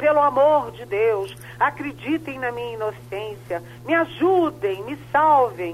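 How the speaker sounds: somewhat desperate, begging, pleading tone. Quoting a woman's message to the women of the Chamber, mock-desperate plea. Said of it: "num tom meio desesperado".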